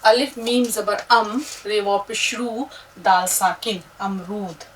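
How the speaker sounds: syllable-by-syllable spelling; teacher spelling a word; spelling aloud. Shown as a demonstration. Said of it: "देखिए किस तरह से".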